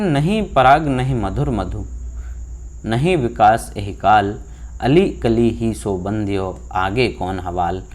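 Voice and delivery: slow, measured reciting of the couplet; poem recitation. Shown as a demonstration. Teacher recites a Bihari couplet for students, slow poem recitation. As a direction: lay the couplet out line by line, slowing at the end.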